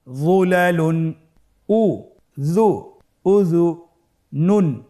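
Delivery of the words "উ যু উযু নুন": উ, যু, নুন split apart; teacher spelling out syllables. Shown as a demonstration. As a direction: break উযুনুন into syllables. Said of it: "ভেঙে ভেঙে পড়তে হয়".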